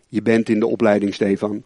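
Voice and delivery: a hint of a calm fatherly voice; calm mentor. Mentor's calm answer quoted.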